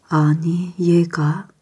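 hushed astonished gasp of words; startled whisper. Acted. Grandfather sees marks on the baby, startled whisper. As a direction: breathe it out in shock, unvoiced. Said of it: "깜짝 놀랐어요".

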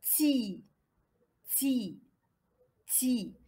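"Ti" softly, with a long i; syllable demonstration. Shown as a demonstration. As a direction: model "Ti" as one soft syllable. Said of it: "je vais la prononcer?".

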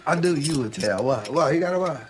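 lightly voiced sassy neighbourhood woman; bossy, teasing girl from the block; Shanae. Martin voices Shanae all through.

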